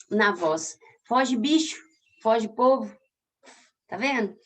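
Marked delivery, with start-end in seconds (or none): 1.0-2.9 Foge bicho, foge povo with the stress on the first syllable and the tail dropped; scansion demo. Shown as a demonstration. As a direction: scan the verse aloud. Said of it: "ele é só um chiado".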